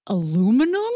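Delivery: aluminum said a-LOO-mi-num, puzzled rise; American aluminum. Retold or imitated. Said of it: "I'm like".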